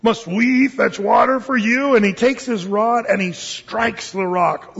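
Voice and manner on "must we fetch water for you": ticked off. Retold or imitated. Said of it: "Moses is all ticked off".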